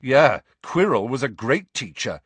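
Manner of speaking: loud, scornful interruption. A narrator's reading. Pupil interrupts teacher's speech about predecessors, loud. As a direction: cut in loudly over the teacher. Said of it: "said Harry loudly".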